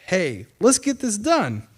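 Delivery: a light send-up of a jaunty politician; mock Boris. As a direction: play him as a breezy, slow-talking PM. Boris voiced in retelling.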